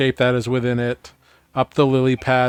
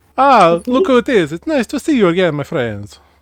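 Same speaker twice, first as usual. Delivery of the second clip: put-on loud sing-song Italian accent; 7 semitones higher, 6 dB louder than usual. Game master voicing Trista as she opens the door to the players, Italian-sounding accent. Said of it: "Why does she become Italian?".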